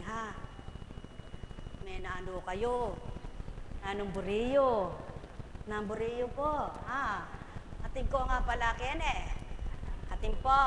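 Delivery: lightly acted dialogue. Preacher acts out a village talk with Apo Koncheng. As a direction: play both neighbours casually.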